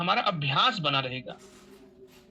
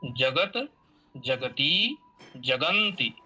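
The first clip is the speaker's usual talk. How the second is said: slow model reading; 2 semitones lower, much slower than usual. Shown as a demonstration. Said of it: "ध्यान से आपको देखना चाहिए".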